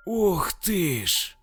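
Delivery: high, drawn-out delighted cry; excited exclamation. Acted. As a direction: gush with delight, slowly. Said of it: "воскликнул Николай". (восторженный возглас)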